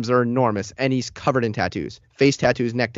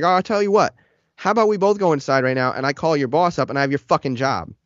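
retold threat; 2 semitones higher than usual. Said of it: "I was screaming at the guy".

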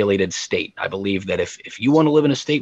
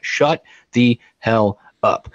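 exasperated retort; 4 dB louder, slower than usual. Real, not acted. Retort to people he just mimicked.

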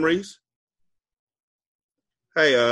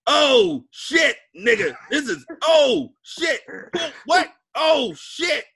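porn sound effects; 13 semitones higher, slower than usual. Retold or imitated. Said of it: "the porn sound effects".

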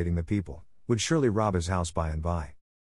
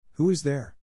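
mildly thundered, higher-pitched demand; understated storybook thunder; thundering challenge; 6 semitones higher than usual. A narrator's reading. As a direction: call out a challenge, raised in pitch more than volume. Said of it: "thundered the doctor".

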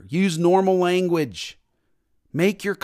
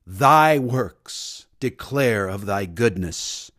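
put-on lower, slow British accent reciting King James English; mock British King James prayer; 6 semitones lower, slower than usual. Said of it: "We start praying with a British accent".

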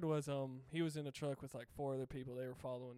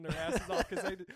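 louder, laughing as the story lands; cracking up; 4 semitones higher, 9 dB louder than usual. Real, not acted. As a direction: tell it while breaking into real laughter. Cracking up telling a funny story.

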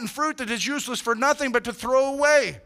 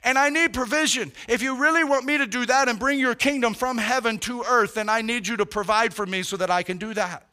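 sample prayer; 2 semitones higher than usual. Shown as a demonstration.

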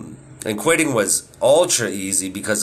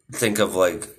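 usual speaking voice

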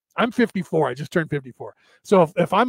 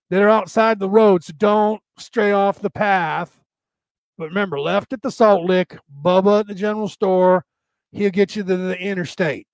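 put-on country bumpkin in a light Southern accent; hint of a Southern backwoods accent. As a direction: give directions in a folksy Southern accent. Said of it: "It's always some Southern accent".

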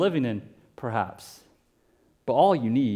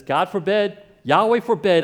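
Naboth's raised, higher-pitched refusal; firm refusal; 6 semitones higher, 6 dB louder than usual. Acted. Naboth refusing King Ahab, raised and firm. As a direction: put your foot down before the king.

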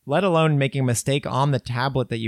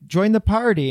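higher, louder taunt; brash shout; 7 semitones higher, 4 dB louder than usual. Retold or imitated. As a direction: bark it like a wrestler. Moses voiced, wrestling.

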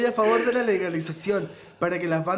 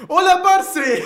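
Colombian greeting; 7 semitones higher, 6 dB louder, much slower than usual. Pretend. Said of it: "Saluda buena onda a los vecinos".

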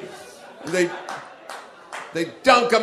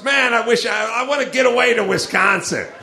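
mock longing; 4 semitones higher than usual. Mocking an unlikely Los Angeles wish.

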